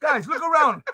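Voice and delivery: put-on broken English Cuban accent; stubborn Cuban dad voice. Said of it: "What happened to the Cuban accent?".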